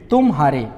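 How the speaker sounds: तुम, a small break, then हारे; two separate words. Shown as a demonstration. Teacher explaining "you defeat", तुम हारे said with a juncture. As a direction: set तुम apart from हारे. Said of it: "विराम है वो थोड़ा बड़ा है".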